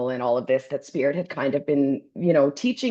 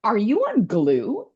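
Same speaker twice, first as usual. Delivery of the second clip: incredulous scolding; 4 semitones higher than usual. Retold or imitated. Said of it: "I'm like".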